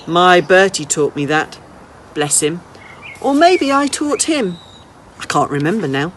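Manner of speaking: put-on an old lady teasing a runaway boy, then inviting him in; lightly voiced old lady.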